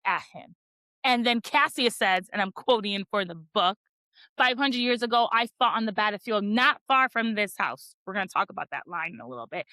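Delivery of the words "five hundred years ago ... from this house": dramatic reading. Retold or imitated. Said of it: "after my super dramaticness".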